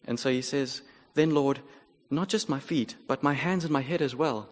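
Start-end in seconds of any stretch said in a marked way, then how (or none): 1.1-4.5 eager. Retold or imitated. Peter eagerly asks for more.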